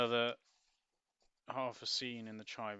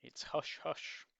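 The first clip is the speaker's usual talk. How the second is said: secretive son; 6 semitones higher, 5 dB louder, much slower than usual. Acted.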